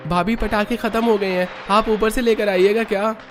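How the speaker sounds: put-on high-pitched, eager young voice; young in-law.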